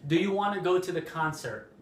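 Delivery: WANNA as one smooth word; "wanna" run together in a flowing question; casual "wanna" in place of want to; reduced spoken form. Shown as a demonstration. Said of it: "more common in spoken English to say".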